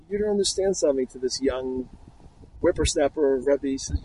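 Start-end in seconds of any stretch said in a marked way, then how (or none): 0.1-1.1 higher-pitched mock-tearful protest; retold tearful plea. Thief answers the young Rebbe who scolded him, mock-tearful protest. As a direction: plead as if crying, without real sobs. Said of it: "the thief, starts crying".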